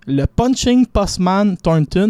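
slow English boxing nickname with a Québécois French accent. Real, not acted. Sports pundit reading English nicknames, Québécois French accent. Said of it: "mon accent".

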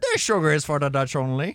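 put-on repeated smugly in a Dutch accent; mock Dutch accent. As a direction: Dutch player insisting. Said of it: "accent hollandais".

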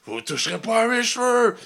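high put-on indignant voice; mock outraged. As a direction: act scandalized and high. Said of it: "t'es comme".

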